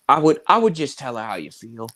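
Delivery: loud, fast Boston rant; Bill Burr. Acted. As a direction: rant like a gruff comedian. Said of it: "slipping into that stuff".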